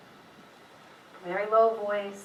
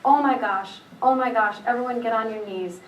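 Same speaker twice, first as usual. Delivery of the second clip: retelling excited cries, pitch nudged up; a touch of high-pitched urgency; slightly high-pitched. Retold or imitated. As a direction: lightly imitate a sister's rising voice. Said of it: "a little bit of a high-pitched voice".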